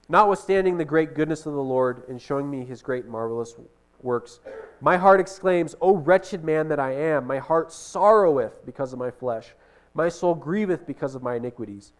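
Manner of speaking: measured, solemn reading of scripture. Acted. Preacher reads Nephi's psalm to the congregation, solemn. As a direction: read it out like holy writ.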